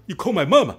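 a light laughing take on the angry line; Jamie Foxx line. Retold or imitated. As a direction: quote the movie comeback with a laugh. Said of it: "杰米·福克斯".

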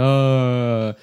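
long, drawn-out mock groan; group groan. Students dreading another mountain hike, long mock groan. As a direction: groan like reluctant kids. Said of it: "多哀鸿遍野".

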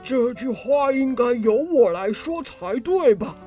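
slow, angry retort in a rogue's voice. Acted. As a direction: throw it back at him slowly. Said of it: "生气地说".

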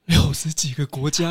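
gasping in disbelief; amazed, voice jumps up; surprised. Real, not acted. Host reacts to sixty countries.

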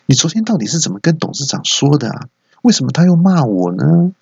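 angry scolding. Acted. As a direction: demand answers from the employee. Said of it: "很生气的找朋友兴师问罪". (经理生气质问下属，越说越大声)

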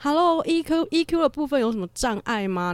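slow, high-pitched mock-incredulous jab; incredulous retort. Inner retort while dumbfounded.

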